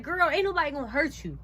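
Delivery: retold indignant reply; exasperated retort. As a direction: brush off the accusation indignantly. Acted retort in retold confrontation.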